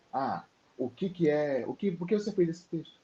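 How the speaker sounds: imagined questioner. Retold or imitated. Author imitating a reader asking about his poem, curious. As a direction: mimic someone quizzing him. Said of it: "Eu vou dizer".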